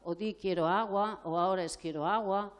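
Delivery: put-on adult drilling a child to repeat the word; insistent correcting. Shown as a demonstration. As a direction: demand the child say it right. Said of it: "tampoco le decimos".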